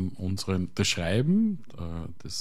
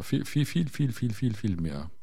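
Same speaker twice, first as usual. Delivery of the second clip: repeated viel for emphasis; emphatic repetition; 2 semitones higher than usual. Real, not acted. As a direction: pile up each viel, then let it fall.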